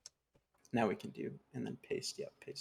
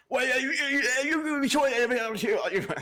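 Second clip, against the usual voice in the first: laughing disbelief; 13 semitones higher, 7 dB louder than usual. Pretend. Mock-offended disbelief, laughing.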